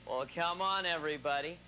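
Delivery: lightly imitated cowboy film star; John Wayne. Shown as a demonstration. Comic showing the second ingredient, light cowboy star impression. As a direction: do a touch of western hero. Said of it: "then you do John Wayne".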